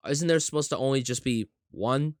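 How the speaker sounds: building disbelief at being lied to; incredulous confusion. Retold or imitated. Retelling own confusion at movie.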